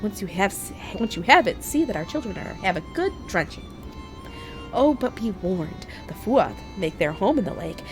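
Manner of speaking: high, gracious fairy queen voice; a regal sprite sweetly asking a favour; goddess. Acted. Voices a fairy figure pleading.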